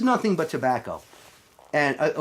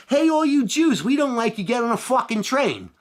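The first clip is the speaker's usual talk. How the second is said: mock Nazi order; 7 semitones higher than usual. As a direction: bark it like a cartoon soldier rounding people up. Voicing Nazis rounding up Jews.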